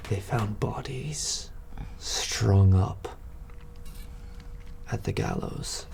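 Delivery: slow, hushed whisper of grim news. Acted. Burly man whispering tavern gossip to Sen, hushed. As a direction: whisper it like a dark secret. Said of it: "he's like".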